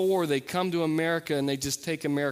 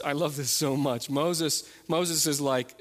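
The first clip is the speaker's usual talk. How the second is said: usual speaking voice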